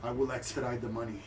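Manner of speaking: low, soft, stiff formal speech of a shamed noble; humiliated noble. Acted. Shamed noble telling the cleric his terms, low and subdued. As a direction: hold your dignity while deeply embarrassed.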